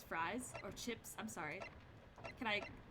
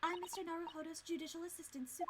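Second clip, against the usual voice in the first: polite assistant character, introducing; 2 semitones higher, 7 dB quieter, faster than usual. Acted. Voices the female assistant.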